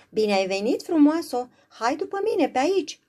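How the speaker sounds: high, loud little sprite calling her along; a bouncy sprite beckoning a guest; welcoming sprite voice; eager sprite. Acted. Sprite greets Beauty eagerly.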